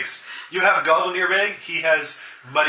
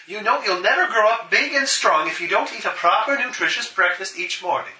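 louder, stern mother scolding; 4 semitones higher, 4 dB louder than usual. Acted. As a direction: scold like a strict mum.

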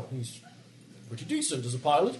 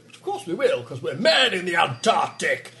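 blustering shout; 3 dB louder than usual. Acted. Blustering expedition leader boast.

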